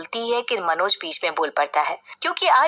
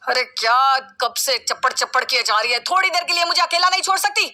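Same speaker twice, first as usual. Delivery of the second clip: angry snapping; 3 semitones higher than usual. Acted. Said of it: "Manoj का गुस्सा देखकर".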